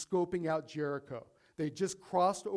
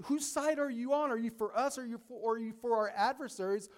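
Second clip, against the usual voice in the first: high, urgent startled question, rushing the end; alarmed challenge; 5 semitones higher, faster than usual. Retold or imitated. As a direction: Joshua demanding an answer fast. Joshua's question repeated.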